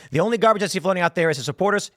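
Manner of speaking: rattled off fast in one go; quick, run-together quote; complete-sentence demo. Shown as a demonstration. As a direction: read it straight through quickly as one unit.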